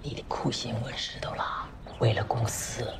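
hushed conspiratorial whisper. Acted. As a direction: whisper it so nobody overhears. Boss confides secretly to employee. (压低声音耳语)

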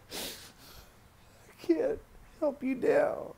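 halting and high, as if the words won't come; anguished. Retold or imitated. Child to hanged father, anguished. Reliving finding father, pleading.

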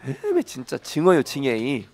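fed-up Jeolla-dialect grumble. Shown as a demonstration. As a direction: demonstrate a weary Jeolla expression. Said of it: "그런 표현이 있거든요".

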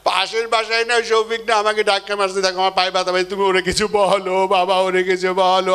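lightly voiced whiny child calling baba; a child tugging at dad to complain; mild imitation of a small child. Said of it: "সন্তান এসে আপনাকে বলে কি".

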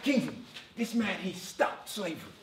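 slow, deliberately bad Canadian accent teacher; mock the Canadian teacher in a bad Canadian accent. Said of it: "this is my worst attempt at a Canadian accent".

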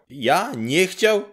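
high, slow, stunned question; can't believe it; outraged disbelief. Acted. Grześ to the neighbour, stunned and high.

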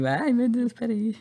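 high, stunned gasp of disbelief; shocked. Retold or imitated. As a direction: hit by sudden bad news. Shock at the news. (surpresa chocada, aguda)

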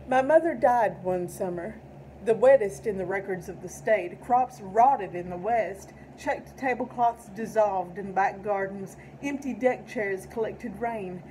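measured, solemn poem recitation; poetry reading. Acted. Reads tribute poem aloud.

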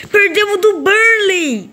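high, slow outraged cry; outraged wail. Real, not acted. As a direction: drag it out in disbelief. Derrota absurda no jogo. (lamento indignado e arrastado)

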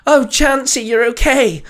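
high, loud cry of relief; Nurse Joy crying out. Acted. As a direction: exclaim with relief, pitched well up. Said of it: "Nurse Joy cried out".

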